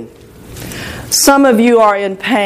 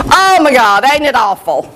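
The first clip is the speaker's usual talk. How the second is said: imitated self-pitying moan; hammed-up complaint to the Lord; mock lamenting. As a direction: play at feeling sorry for yourself. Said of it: "just lamenting to the Lord about poor me".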